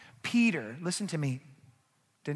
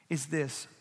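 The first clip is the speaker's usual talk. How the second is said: whisper; 7 dB quieter than usual. Real, not acted. Whispered build-up in sermon.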